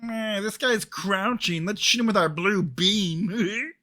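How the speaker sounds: slow, high alien drawl; slow and high like a spacey alien. Retold or imitated. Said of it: "best fucking alien voice I've heard you do".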